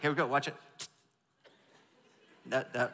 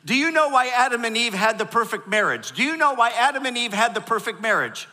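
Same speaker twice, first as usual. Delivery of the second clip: joke setup; 6 semitones higher, 8 dB louder than usual. Real, not acted. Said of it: "since we're having fun".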